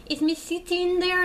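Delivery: high-pitched mock Indian accent, imitating a sales caller. Ranting about phone sales callers, imitating one in an Indian accent. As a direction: put on an Indian accent like a telemarketer asking for someone. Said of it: "they sound like they're from India".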